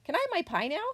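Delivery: put-on high, hopeful child-character question; young possum asking. A narrator's reading. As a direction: pipe up with a pleading lift. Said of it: "he asked".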